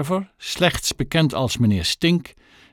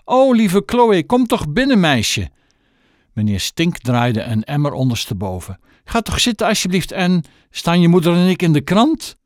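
high sweet tramp voice; 5 semitones higher than usual. Acted. Tramp welcoming Chloe warmly.

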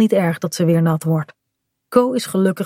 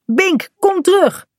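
high, drawn-out call; 11 semitones higher than usual. A narrator's reading. Mother wants Bink back from the sea, calling out. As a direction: stretch the words to carry over water.

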